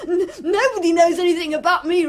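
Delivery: laughing boast. Acted.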